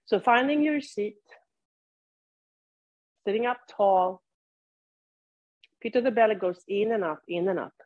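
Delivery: unhurried cues with long silences between; guided yoga practice. Real, not acted. Teacher leads seated students into body awareness, guided meditation delivery. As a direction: guide them through it, leaving room to breathe.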